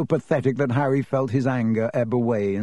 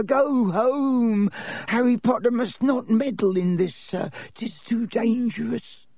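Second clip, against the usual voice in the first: high, wailing elf warning; anguished little house elf urging him away; Dobby the elf, pleading; 10 semitones higher than usual. Acted. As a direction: plead desperately in a high-pitched voice. Narrator voices Dobby warning Harry.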